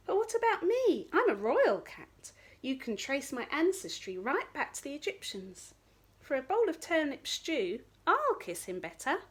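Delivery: preen like a posh cat; the royal cat bargains for stew; eager royal cat. Acted. Royal cat offers herself.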